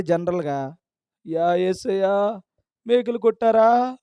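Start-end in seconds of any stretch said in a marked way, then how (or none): 1.3-4.0 slow, drawn-out mock wail; mock lament. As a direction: imitate a believer lamenting over Jesus. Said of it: "అంటే ఎవడికి ఏడుపు రాదు". (నెమ్మదిగా సాగదీస్తూ ఏడుపు అనుకరణ)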